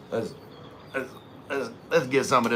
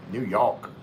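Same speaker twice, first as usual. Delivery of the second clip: half-hearted New York accent, "New York" as "Noo Yawk"; attempted New York accent. Shown as a demonstration. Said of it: "do a New York accent".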